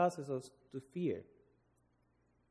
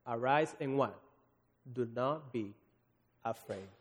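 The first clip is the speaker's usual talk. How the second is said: gentle reassurance. Acted. Jesus comforting scared disciples.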